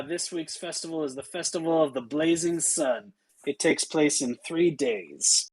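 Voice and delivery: guard's rote official spiel; mildly deadpan city-gate speech. Acted. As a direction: recite the rules with little excitement. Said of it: "she is totally deadpan".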